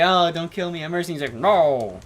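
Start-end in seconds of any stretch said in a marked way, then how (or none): 0.0-1.1 muffled, goofy skeleton voice. Retold or imitated. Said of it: "that goofy muffled voice". 1.3-2.0 muffled, blunt skeleton no; goofy muffled voice. Retold or imitated. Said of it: "that goofy muffled voice".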